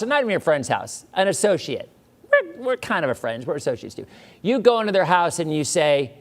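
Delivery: playful rant. Real, not acted. Lively raised rant.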